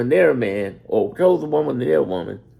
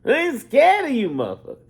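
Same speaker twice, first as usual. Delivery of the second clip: Bernie Mac; 11 semitones higher, faster than usual. Retold or imitated. To the Chicago crowd, defiant Bernie Mac impression. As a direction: bark it out high, then drop the last word. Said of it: "doing my Bernie Mac".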